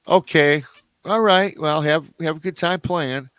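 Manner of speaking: high, bright reassurance with a bit of extra volume; mother humoring her little girl, upbeat and high; forced cheerful mom. Retold or imitated. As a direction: brush it off cheerfully, like a mom who is not worried.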